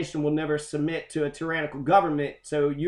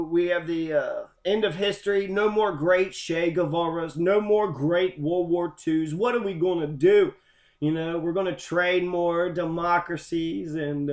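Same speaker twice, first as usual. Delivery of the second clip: mock depressed. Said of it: "sounding, like, all depressed and was like".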